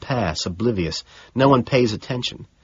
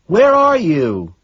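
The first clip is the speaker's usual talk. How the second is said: higher, slow worried question; secretary asking; 8 semitones higher, 5 dB louder, slower than usual. Acted. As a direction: ask where he is. Secretary asks on phone.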